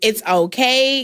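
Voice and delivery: slow, gentle reassurance to herself; slow self-soothing. Retold or imitated. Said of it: "catch myself to be like".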